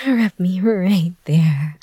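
low, slow and drawn out; slow sultry request. Acted. Asking her partner in roleplay, slow low drawn-out request. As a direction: stretch each word, low and slow.

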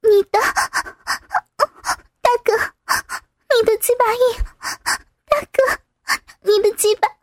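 put-on high, meek young woman voice; soft submissive reply. A narrator's reading. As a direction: answer small and timid. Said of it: "雨雪细声软语的回答".

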